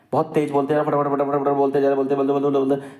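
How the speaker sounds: fast, tumbling repeated words; rushed speech demo. Shown as a demonstration. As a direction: pile the words on top of each other. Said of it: "आप बहुत तेज़ी से नहीं बोलोगे". (फटाफट बोलने की नकल)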